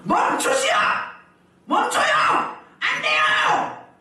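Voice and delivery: high, full-force urgent shout; desperate acted scream, last word drawn out; loud shout. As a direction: yell to stop someone in the nick of time. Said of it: "바울이 크게 소리 들어".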